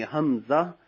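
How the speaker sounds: slow, syllable by syllable; slow spelling drill. Shown as a demonstration. Teacher slowly spells for students. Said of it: "इसी अंदाज में करेंगे".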